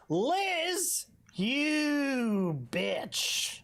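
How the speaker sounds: very high put-on accent; Bull's accent, murmured. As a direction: murmur it like gossip in his squeaky voice. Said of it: "before murmuring quietly".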